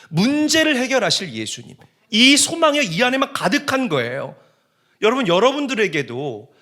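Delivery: high, forceful pulpit delivery; fervent preaching. Real, not acted. Pastor blessing the congregation to hear the message, fervent preaching.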